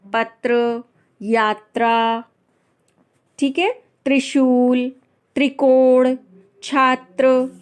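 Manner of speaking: careful, separate words, त्र as one 'tra' cluster; model pronunciation. Shown as a demonstration. Teacher modelling example words for learners, careful pronunciation. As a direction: clear 'tr' from पत्र to छात्र. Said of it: "इस तरह से इसका उच्चारण करेंगे".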